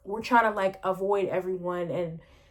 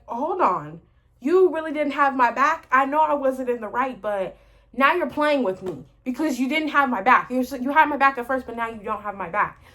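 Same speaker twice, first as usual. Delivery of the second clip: indignant; 3 semitones higher than usual. Retold or imitated. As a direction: call her out for not having your back. Confronting her mom.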